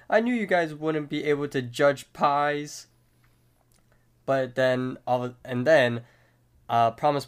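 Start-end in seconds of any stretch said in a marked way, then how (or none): 0.1-2.9 lightly acted scolding, higher pitch; mild mock outburst, raised pitch; Benson. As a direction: voice an exasperated accusation.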